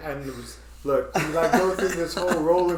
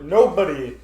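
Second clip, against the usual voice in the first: mock braced; 2 semitones higher, 5 dB louder than usual. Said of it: "'Cause I was like".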